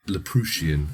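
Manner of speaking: Laproutian said as lap-ROO-shee-an; sister's mispronunciation. Retold or imitated. Mocking the sister's name for Leprechaun, Laproutian. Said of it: "as my sister would call it".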